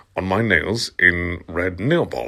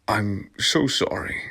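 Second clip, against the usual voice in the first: shy; 6 dB quieter than usual. Acted. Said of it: "he said in a shy".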